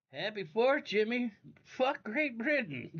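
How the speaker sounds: high, loud rowdy cheer. Real, not acted. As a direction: yell it out like a toast. Holiday shout-out to a viewer.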